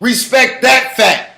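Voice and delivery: heated insistence. Real, not acted. Guest demanding host respect hip hop's roots, heated insistence.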